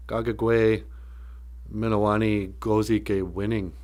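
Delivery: measured Ojibwe phrase, in pieces. Shown as a demonstration. Speaker carefully sounding out land of everlasting happiness, measured. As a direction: say it piece by piece, with pauses.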